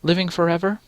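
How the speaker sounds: high-pitched podcast interviewer; put-on high interviewer voice. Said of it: "the interviewer asks".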